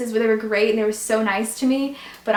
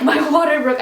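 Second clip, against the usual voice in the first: laughing; 5 semitones higher, 8 dB louder than usual. Retold or imitated. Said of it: "Yeah, I was like".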